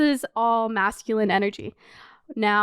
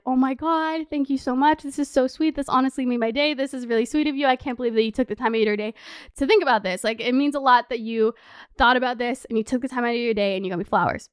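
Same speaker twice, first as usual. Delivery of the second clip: gracious thanks; faster than usual. Retold or imitated. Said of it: "what would someone with feminine energy do".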